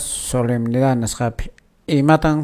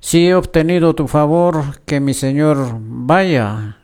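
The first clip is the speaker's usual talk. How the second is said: scripture reading. Acted. Host reading Exodus to radio listeners, formal lector reading. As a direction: read the lesson to the congregation.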